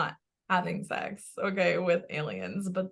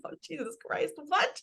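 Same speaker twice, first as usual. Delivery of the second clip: stunned; 8 semitones higher than usual. Retold or imitated. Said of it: "And I'm like".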